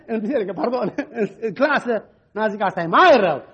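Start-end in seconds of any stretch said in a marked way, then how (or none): 0.1-1.9 laughing correction. Real, not acted.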